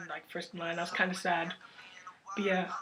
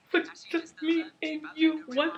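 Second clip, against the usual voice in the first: mock outrage; 3 semitones higher, slower than usual. Fan seeing other girls picked first, in mock betrayed outrage. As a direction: pretend you've been played.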